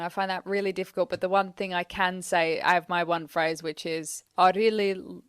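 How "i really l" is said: attempted South African vowels; South African accent. Shown as a demonstration. Woman tries her one phrase, shaky South African accent. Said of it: "I can't do a South African accent".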